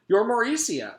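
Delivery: loud, high Scottish voice; Scottish gentleman. A narrator's reading. Jason tells Jenny who she is, sounding Scottish. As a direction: exclaim it with a Scottish touch. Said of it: "sounded like the gentleman from Scotland".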